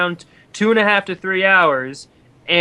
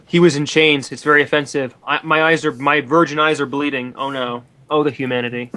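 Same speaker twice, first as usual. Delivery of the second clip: hammed-up mock horror. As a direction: pretend to be scandalized, overplaying it. Hammed-up mock horror over chains.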